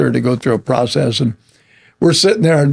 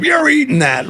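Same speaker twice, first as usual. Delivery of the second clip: higher, firm mom voice; stern Italian mom; 10 semitones higher than usual. Retold or imitated. Italian mom telling her grown son he eats it. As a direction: insist like a mother at dinner.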